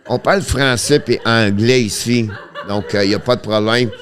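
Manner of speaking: words through leftover laughter; laughing while talking. Real, not acted. Streamer answers chat in French, still laughing.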